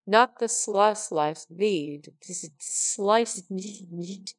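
halting slow retake, slightest stretched; stumbling reread. Real, not acted. Reader tripping over the line, drawn-out and broken. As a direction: break off at sli- and restart.

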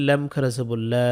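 final "লা" held long; "লা" with a prolonged aa vowel; one-alif lengthening. Shown as a demonstration. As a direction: spell out "লাম খারা জবর লা", stretching the last "লা". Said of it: "এক আলিফ টানতে হবে".

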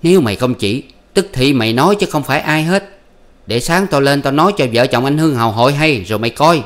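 high, loud bickering voices; husband and wife arguing at night, high and loud; heated quarrel. Acted. Voiced marital quarrel continues.

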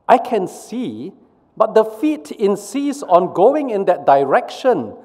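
eyes answering the brain, high and defensive. Acted. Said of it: "replies the eyes to the brain".

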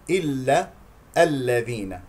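"إلا", pause, "الذين", neither ل lingered on; correct unheld ل. Shown as a demonstration. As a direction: release the doubled ل promptly in "الذين". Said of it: "لا تمسك اللام المشددة". (نطق "الذين" دون إمساك اللام)

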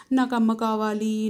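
loud tearful plea, stress on నాకు; crying plea. A narrator's reading. Girl clinging to giant, crying plea. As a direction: burst out crying for mother. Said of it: "ఏడుపు తన్నుకొచ్చింది".

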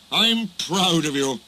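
slow, proud praise; kindly. A narrator's reading. Fat Controller praising brave Duck, kindly. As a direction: tell them proudly, taking your time. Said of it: "said the Fat Controller kindly".

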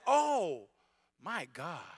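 reverent prayer. Shown as a demonstration. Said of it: "you should be saying".

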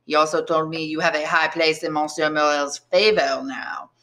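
put-on chummy, thick Marseille French accent; change the subject in heavy Marseille accent. Tailor asks about Edmond's return, Marseille accent. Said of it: "in a heavy Marseille accent".

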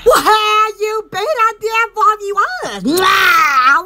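loud, slow call ending in a smacked kiss; loud greeting. Real, not acted. Greeting her viewers loudly with a kiss. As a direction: shout the hello and blow a kiss.

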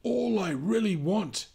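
high, loud bear voice; roaring cranky bear. Acted. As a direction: growl it at the sheep. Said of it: "he turned and roared at Sheep".

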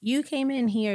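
lightly acted protest; indignant confusion. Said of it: "I'm like".

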